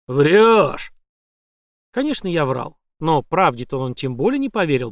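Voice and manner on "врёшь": громко, другим голосом; бросает обвинение; злое «врёшь». A narrator's reading. (злой выкрик)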